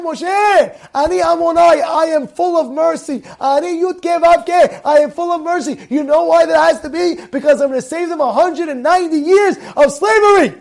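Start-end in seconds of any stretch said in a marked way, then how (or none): 0.0-5.8 high, emphatic proclamation; acted divine assurance, sustained high; Hashem. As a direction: declare it insistently, in answer to a protest. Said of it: "Hashem tells Moshe".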